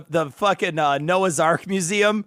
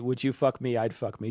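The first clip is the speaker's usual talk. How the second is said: low, hushed and menacing, much softer; creepy killer quote; 9 semitones lower, 9 dB quieter than usual. Retold or imitated. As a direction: murmur it like a creepy movie killer.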